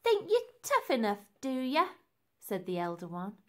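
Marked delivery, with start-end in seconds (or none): 0.0-1.9 high, loud jeering taunt; pitched-up, punchy mocking question; taunting challenge. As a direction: throw it out as a cocky challenge. Elder sister taunts in fight.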